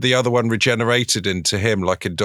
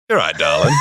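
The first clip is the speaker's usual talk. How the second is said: Yorkshire bloke calling out; Yorkshire accent; 4 semitones lower, faster than usual. Acted. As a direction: bellow it in a broad Yorkshire voice. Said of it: "that's Yorkshire".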